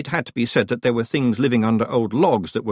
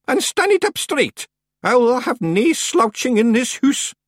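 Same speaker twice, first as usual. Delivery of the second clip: high, loud Scots dressing-down; old witch, scolding; 14 semitones higher, 4 dB louder than usual. A narrator's reading. Miss Treason demands courtesy from Rob Anybody, scolding. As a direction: order them about with relish. Voices witch commanding the Feegles.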